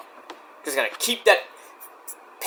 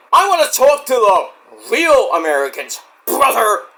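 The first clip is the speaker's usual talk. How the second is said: raised voice, hammed-up Southern patriot; exaggerated wrestling promo voice; mock Southern wrestler; 4 semitones higher, 3 dB louder than usual. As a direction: imitate a wrestler rallying Southern fans. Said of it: "And Southern people in general, then he's like".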